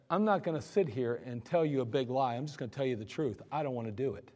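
low, soft, matter-of-fact; calm honest answer. Retold or imitated. Soldier quietly telling the sergeant he doesn't want to. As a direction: tell the truth quietly and plainly.

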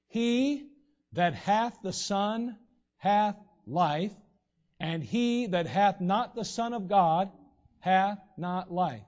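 slow, weighty King James recitation, each phrase set apart; solemn scripture reading. Acted. Preacher reciting First John to the congregation, slow and solemn. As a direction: let every one-syllable word land slowly.

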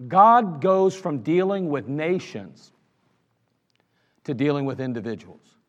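slow emphatic teaching line. Shown as a demonstration. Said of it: "repeated teaching line".

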